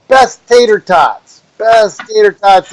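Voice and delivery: lightly hammed-up billboard pitch; sign voice. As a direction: read the sign like a carnival barker. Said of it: "and I'm like".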